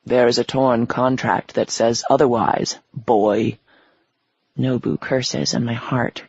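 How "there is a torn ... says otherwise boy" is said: a lightly lowered, menacing devil. Acted. The devil claiming her soul, menacing and low. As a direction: speak low and commanding like the devil.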